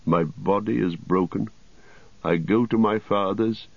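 quiet, laboured dying king; ailing king. Acted. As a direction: speak softly, struggling for breath. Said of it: "he spoke in a quiet voice, though laboured".

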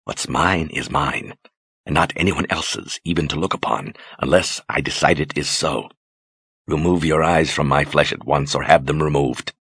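cold command that needs no volume; unruffled authority. Acted. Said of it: "with unruffled authority".

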